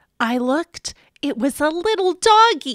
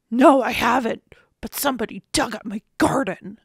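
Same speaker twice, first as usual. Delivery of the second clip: mild neighbour voice. Acted. Neighbour Mister Bovine answers.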